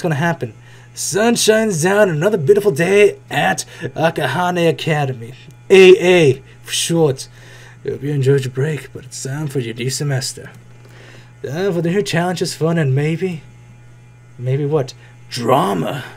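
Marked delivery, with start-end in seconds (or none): 0.9-7.3 narrator voice. Shown as a demonstration. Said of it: "I don't know why I'm talking like this". 7.8-16.0 mock-dramatic narration building to a teasing Drama; narrator voice. Shown as a demonstration. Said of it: "I'm giving this voice to narrate like that".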